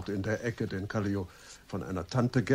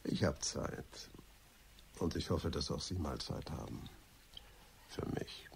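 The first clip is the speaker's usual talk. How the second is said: low flirtatious murmur; 5 semitones lower, 11 dB quieter than usual. Acted. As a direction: lean in and breathe the words as a come-on. Flirting with the secretary. (leise, langsam und verführerisch gehaucht)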